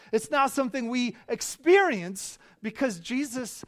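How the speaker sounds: loud, high-pitched preaching; impassioned preaching. Acted. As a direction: build it to a full-force proclamation from the pulpit. Preaches at full force.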